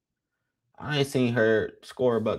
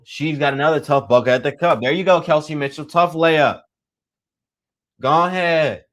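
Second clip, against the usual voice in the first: live play-by-play; 3 semitones higher than usual. Acted. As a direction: call the final possession, swelling as she scores. Live play-by-play, closing seconds.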